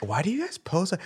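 put-on a squeaky, puzzled old gentleman; high-pitched old man voice. Retelling an older gentleman's question.

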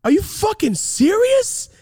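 high-pitched, drawn-out outraged shout; incredulous yell. Retold or imitated. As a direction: yell it in utter disbelief. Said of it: "so I yelled at her".

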